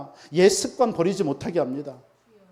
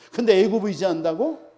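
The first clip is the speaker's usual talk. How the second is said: incredulous, mocking question; scoffing mockery. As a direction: scoff at such misplaced trust. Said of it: "비웃는 거예요".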